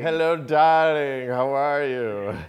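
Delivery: slow, loud, high purring diva voice; breathy vintage purr. Pretend. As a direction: purr it back like a film star. Echoes the purring greeting back.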